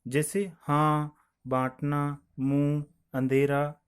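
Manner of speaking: हाँ and अंधेरा said slowly, nasal vowel held; slow example words. Shown as a demonstration. Teacher to students, slowly modelling हाँ and मुंह. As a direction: lay out each word हाँ, मुंह slowly. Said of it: "इसका लिपि चिन्ह है एक चंद्र बिंदु".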